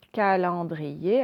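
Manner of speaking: "Calendrier" drawn out syllable by syllable, gently rising; slow dictation repeat. Shown as a demonstration. Teacher repeating a word for pupils, slow syllabled dictation. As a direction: repeat "Calendrier" slowly, every vowel held. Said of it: "vous devez me dire".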